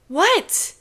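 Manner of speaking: high, rising feigned innocence; mock-innocent high question. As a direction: play dumb with a high what. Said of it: "all innocence".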